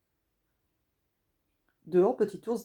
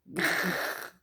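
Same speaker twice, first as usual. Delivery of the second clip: growl. Acted. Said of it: "en montrant les dents".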